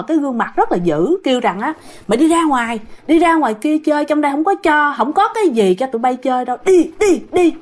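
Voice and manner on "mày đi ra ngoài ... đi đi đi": put-on shrill angry voice chasing kids out; angry ghostly shout. Ghost woman angrily chasing the girl out. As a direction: shoo them off, rising to a yell on the last đi.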